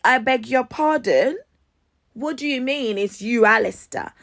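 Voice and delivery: retold outraged double-take; indignant disbelief. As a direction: challenge the stranger, incredulous. Acted disbelief at stranger's claim.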